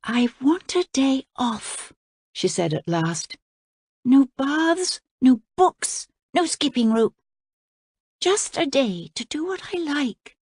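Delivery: put-on high curious girl's question; young princess. A narrator's reading. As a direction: lift it up like a wide-eyed girl. Voices the princess.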